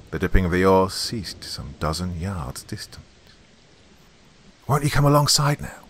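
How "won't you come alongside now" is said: raised, steady invitation; louder, higher but controlled question; even voice. A narrator's reading. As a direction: call over calmly and evenly. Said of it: "asked Will in an even voice".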